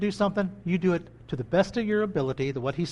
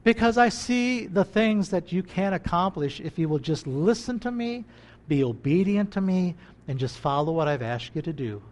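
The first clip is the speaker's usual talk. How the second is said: tender God voice. Retold or imitated. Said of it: "I imagine He would say".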